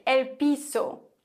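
piso with an ordinary hissed S; normal S sound. Shown as a demonstration. Teacher names the floor, plain S in piso. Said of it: "ganz normal mit S".

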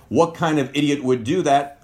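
mock insulting question. Shown as a demonstration. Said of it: "It's not really a question now".

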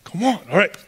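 a frantic father begging to hurry; desperate dad losing patience, building to a cry; frantic pleading. Retold or imitated. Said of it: "Jairus is just freaking out".

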